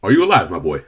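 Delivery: put-on fussy old man. Voicing game character.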